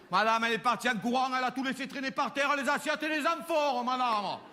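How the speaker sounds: a maid telling tales to her mistress, high and indignant; shrill complaining servant. Acted. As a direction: tattle to madame in a high, outraged voice. Servant voiced complaining to madame.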